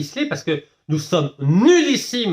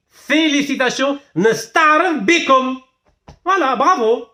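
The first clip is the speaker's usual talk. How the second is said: high, loud, drawn-out acclaim; hammed-up cheering praise; effusive congratulations; 9 semitones higher, 5 dB louder, slower than usual. Real, not acted. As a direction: proclaim the congratulations with soaring pitch.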